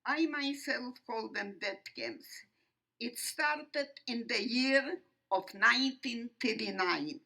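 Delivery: emphatic, measured oratory with weighty pauses; formal testimony speech. Real, not acted. Survivor addressing an audience about the Holocaust, formal and emphatic. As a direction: declaim it firmly, phrase by phrase. Delivers prepared opening of testimony.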